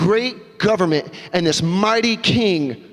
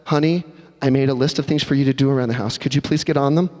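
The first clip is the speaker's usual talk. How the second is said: cold; 5 semitones lower than usual. Acted. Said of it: "That's cold".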